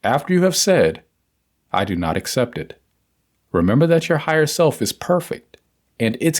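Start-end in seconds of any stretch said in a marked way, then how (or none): 1.7-2.8 lower, softened, quietly firm; calm conviction. Shown as a demonstration. Reader repeats the denial for listeners, calm and firm. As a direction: refuse it calmly, without abruptness. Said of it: "Say it calmly, but with the same conviction".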